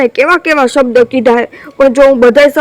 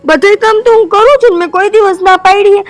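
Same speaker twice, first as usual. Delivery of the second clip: higher upset protest; 5 semitones higher than usual. Acted. Wife protests tearfully.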